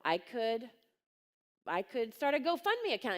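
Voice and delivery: retold dawning idea, rising in pitch; imitated blurting out. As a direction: act out an idea suddenly tumbling out. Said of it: "just, like, blurted out of her mouth".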